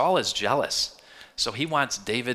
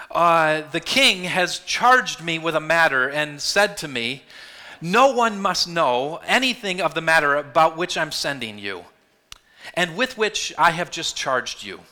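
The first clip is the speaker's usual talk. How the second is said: voicing David; 3 semitones higher, 5 dB louder than usual. David's lying words read aloud.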